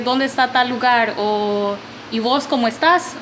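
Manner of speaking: usual speaking voice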